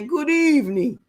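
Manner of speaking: a hint of a mock vampire greeting; lightly voiced Dracula, half-joking; Count Dracula voice. Greeting her chat in a light mock Dracula voice. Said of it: "I said it in that voice, like Count Dracula".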